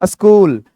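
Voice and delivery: "स्कूल" said as "uh-skool"; short uh leading into "स्कूल"; correct pronunciation. Shown as a demonstration. Teacher repeating the corrected word, "स्कूल" as uh-skool. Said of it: "स्कूल नहीं".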